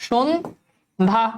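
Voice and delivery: সন্ধ্যা very slow, শোন্ধা with the ধ held; slow model of সন্ধ্যা; drawn out. Shown as a demonstration. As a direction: stretch সন্ধ্যা out to show the o sound. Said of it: "তাহলে ওকার হবে".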